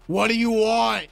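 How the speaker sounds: loud, curt mock demand; brusque worker. Worker demanding the customer's order, brusque. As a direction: put on an impatient sandwich worker.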